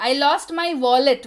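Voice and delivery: slow and clear, word by word; slow model sentence. Shown as a demonstration. Teacher reads the English line slowly for Hindi students. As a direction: spell it out slowly for learners. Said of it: "teacher models the English sentence".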